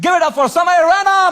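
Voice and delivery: big hype-man shout, high and loud, drawn out slow; announcer shouting. Retold or imitated. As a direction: slowly boom out the name like an MC. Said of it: "मेरा नाम चिल्ला दिया उन्होंने".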